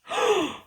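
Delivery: sharp high gasp of shock; surprised gasp. Shown as a demonstration. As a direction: gasp as if caught off guard. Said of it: "maybe surprised or shocked".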